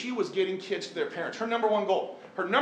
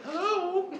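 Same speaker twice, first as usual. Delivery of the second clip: mock British hello, pitched much higher; high, put-on British "Hello"; fake British accent; 13 semitones higher than usual. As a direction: answer the phone like a posh British butler. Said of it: "answering in a fake British accent".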